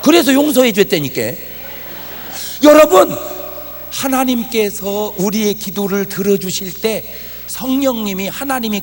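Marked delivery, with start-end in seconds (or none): 0.0-3.2 loud, high sermon cry; fiery preaching. Acted. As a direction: preach it out to the whole hall. Preacher at full force.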